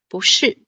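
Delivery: 不是 with 不 rising, 是 falling; bú shì demo. Shown as a demonstration. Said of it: "是四声".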